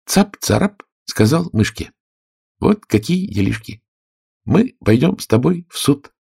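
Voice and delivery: high, sly bullying cat voice; a cat threatening the mouse; lightly voiced bully cat; menacing cat. A narrator's reading.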